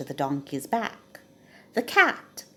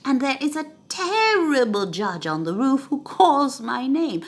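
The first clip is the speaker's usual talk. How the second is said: high, loud panicked account; frightened robber; 6 semitones higher, 5 dB louder than usual. Acted. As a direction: shaken robber pouring out his story. Terrified robber tells the others.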